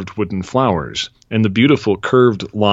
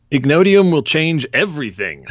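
excited father; 8 semitones higher than usual. Acted. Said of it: "Ned's father said".

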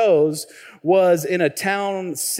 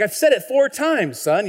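higher-pitched mock Southern father-in-law; thick Southern accent; 6 semitones higher than usual. Father-in-law repeating himself to son-in-law, thick Southern accent. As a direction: lightly imitate an exasperated Southern dad. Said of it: "his accent is so thick".

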